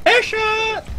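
high, triumphant yell of victory; excited shout. Real, not acted. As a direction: shout it out like you just scored. Celebrating a mid-air hit.

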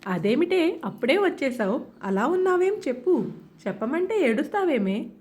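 a mother's voice climbing from fretting to a mild shout; rising mother's scold. Acted. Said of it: "అంతకంతకు గొంతు పెంచుతూ అరుస్తుంటే".

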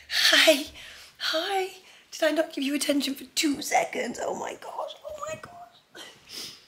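very high cooing, half whispered. Real, not acted. Cooing over her dog.

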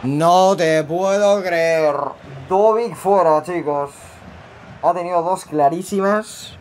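can't believe the miss; disbelief. Real, not acted. Another missed chance.

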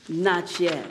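low, soft, unmoved answer; quiet refusal. Acted. Master looks into the oven at the teacup, quiet refusal. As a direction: hush right down after the yelling.

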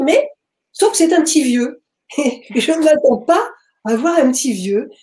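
a real laugh breaking into the telling; amused laugh. Real, not acted. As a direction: chuckle at the surprise. Amused at surprise of old man.

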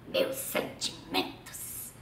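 whispered, slow mock condolence. Dad mocking his wife's friend's future funeral, whispered. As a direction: breathe "Meus sentimentos" in a hushed, drawn-out voice. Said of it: "Papai falava assim".

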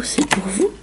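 softly repeated; quiet repeat. Real, not acted. Repeating to the viewers that the code is theirs, softly. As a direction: drop the voice on the second time.

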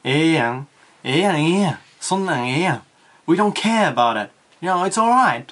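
lightly rough, careless brush-off; sweeping attitude. Shown as a demonstration. Teacher showing how Osakans brush things off, sweeping attitude. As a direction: shrug it off in Osaka dialect. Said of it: "a sweeping attitude, like rough attitude".

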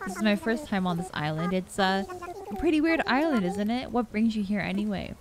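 a hint of friendly Rover; reading a character. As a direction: player reading Rover's lines aloud, lightly voiced. Reading Rover's game dialogue.

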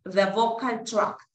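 "the vocal tract" spoken carefully as a model; slow, careful English "vocal tract"; English model word. Shown as a demonstration. Teacher models the English term for Spanish-speaking students. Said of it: "eso se llama el aparato fonador".

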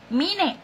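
"Mine" said softly as "MEE-neh"; Spanish reading. Shown as a demonstration. Vlogger confirms a viewer's name, "Mine" as "MEE-neh". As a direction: say "Mine" with both vowels sounded, as in Spanish. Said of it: "Así como se lee en español".

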